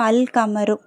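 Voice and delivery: "அல் கமரு" with the L clearly sounded; teacher's model "அல் கமரு", full L; lam pronounced. Shown as a demonstration. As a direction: keep the L audible in "அல் கமரு". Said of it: "லாம் உச்சரிக்கப்படுது".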